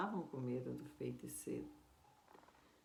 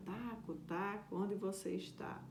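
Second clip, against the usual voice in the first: put-on higher-pitched call, searching for the boy; 5 semitones higher than usual. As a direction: call out for Taco from a distance. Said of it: "ele começou a gritar". (chamando em voz aguda)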